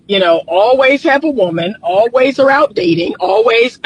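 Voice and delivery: hoarse morning voice; rough, just-woke-up voice. Real, not acted. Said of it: "y'all, I got my morning voice".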